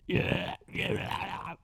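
faint, barely audible yeah yeah; weak. Retold or imitated. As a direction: say it weakly, about to pass out. About to faint, weak reply.

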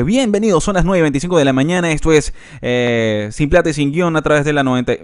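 lightly put-on radio host voice; radio announcer intro. Shown as a demonstration. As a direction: present it like a radio show. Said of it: "suena distinto a como nosotros estamos hablando".

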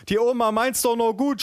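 high, wailing aunt, hammed-up; mock sob. A narrator's reading. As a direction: plead tearfully in a comic high voice. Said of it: "schluchzte meine Tante". (gespielt schluchzende Tante)

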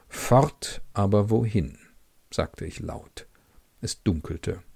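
calm literary reading, first person; story narration. A narrator's reading. Reader presenting a Markus Werner novel, measured narration. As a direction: read the novel's inner voice evenly.

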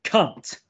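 "Cunt" with a crisp final T; "Cunt" said in full, N and T both sounded; every letter enunciated. Shown as a demonstration. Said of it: "you have to use every letter".

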